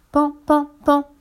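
high, light spoken knocks; little high "pan" taps; gentle knocking. A narrator's reading. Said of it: "Il frappe doucement".

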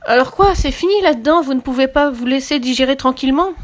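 high, loud, indignant yell; angry shout. A narrator's reading. Sick shark yelling at the doll inside him, angry shout. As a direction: roar it out like an outraged fish. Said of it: "il se mit à crier".

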